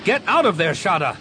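urgent loud shout into the comm. A narrator's reading. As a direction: yell her name in alarm. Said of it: "he shouted into the comm".

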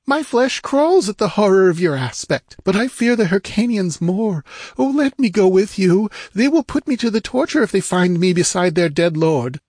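very high, loud fearful pleading; frightened woman. A narrator's reading. Captive woman begging to go along, fearful pleading. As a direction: plead with horror and dread.

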